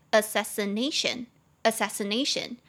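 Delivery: "assassination" with the main stress on NA; fourth-syllable stress. Shown as a demonstration. Teacher modeling assassination twice, stress on fourth syllable. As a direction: lean on the "na" in "assassination". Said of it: "重音节在第四音节".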